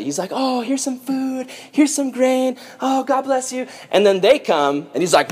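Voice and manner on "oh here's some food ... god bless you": high, soft, sweet handout voice; gently dote on each person, voice raised high; nice. Acted. Joseph hands out food to everybody, sweetly nice. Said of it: "Joseph's being nice to everybody".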